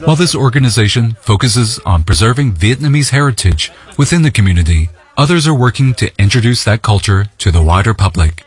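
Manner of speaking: measured, even reporter's read over music; news voiceover. Acted. Reporter introduces the festival to viewers in a news read. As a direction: narrate the festival report like a broadcast piece.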